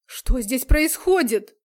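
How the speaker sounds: slow, loud alarmed shout. A narrator's reading. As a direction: call out loudly to stop the fight. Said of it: "громко крикнул".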